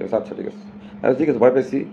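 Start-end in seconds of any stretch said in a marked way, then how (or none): 0.0-0.7 mock scared whisper. Mocking reply to threats.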